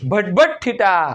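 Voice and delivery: slow teasing nonsense in place of sine; playful mock mumbling; mocking garble. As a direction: make fun of the confused pupils. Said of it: "આવું હુટપટી બોલશે".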